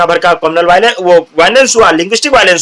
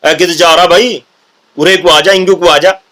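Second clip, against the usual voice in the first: Haryanvi accent; 2 semitones lower than usual. Shown as a demonstration. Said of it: "Haryanvi touch".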